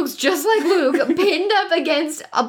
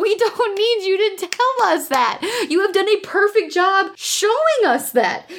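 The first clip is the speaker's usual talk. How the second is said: exasperated retort; 6 semitones higher than usual. Acted. Podcaster scolding the redundant narration, exasperated.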